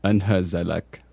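"Anhazalak" spaced out syllable by syllable. Shown as a demonstration. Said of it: "Syllable by syllable".

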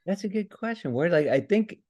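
put-on a light Scottish accent. Podcast guest slips into a Scottish accent. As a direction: answer the question in a Scottish brogue. Asked for Scottish character, answers in voice.

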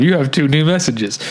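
stiff robotic answering machine. Retold or imitated. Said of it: "he loves the robot voice".

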